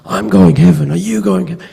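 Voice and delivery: imitating a worked-up congregation cheering; excited crowd. Congregation answering the pastor about heaven, in high excited voices. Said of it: "And they're all getting excited".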